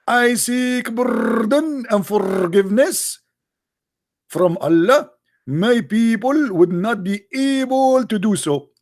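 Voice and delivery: drawn-out mocking plea; mocking a plea for pardon; mock pleading. Mocking the plea third time.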